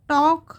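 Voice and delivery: टॉक said as tok, with no L sound; silent L. Shown as a demonstration. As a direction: say टॉक without the L. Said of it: "देखो टॉल्क नहीं पढ़ेंगे".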